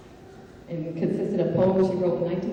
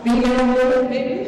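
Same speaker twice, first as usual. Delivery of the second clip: playful quip; 5 semitones higher, 9 dB louder than usual. Real, not acted. Joking correction of male moment.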